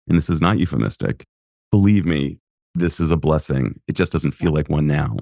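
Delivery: kind inner voice reassuring someone stood up. Retold or imitated. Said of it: "some kind commanding voice saying".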